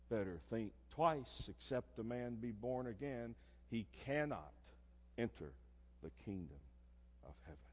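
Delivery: softly warning the congregation; hushed sermon warning. Acted. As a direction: let the warning sink in quietly. Sermon drop after peak.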